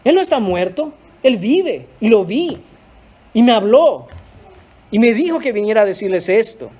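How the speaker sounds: joyful Mary. Acted. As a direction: run in shouting the news. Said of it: "ella fue corriendo a decir".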